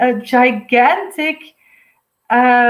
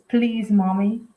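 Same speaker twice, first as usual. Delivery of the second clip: serious plea; 2 semitones lower, 4 dB quieter than usual. Retold or imitated. Relaying a son's message to his mother, serious. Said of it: "really serious right, right now".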